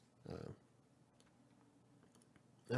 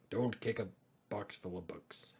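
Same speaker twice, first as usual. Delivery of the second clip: pirate voice; 2 semitones lower than usual. Pretend. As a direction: growl it like an old sea dog. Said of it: "I like my pirate voice".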